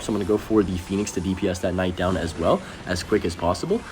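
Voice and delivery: normal talking voice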